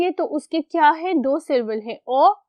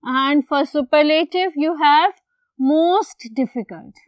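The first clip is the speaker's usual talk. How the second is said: slow drill; much slower than usual. Shown as a demonstration. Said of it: "drilling superlative form".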